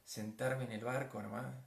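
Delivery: soft, low, dreamy picture; tranquil scene-painting. Acted. Preacher picturing a calm boat ride, tranquil. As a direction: ease gently through a peaceful imagined scene.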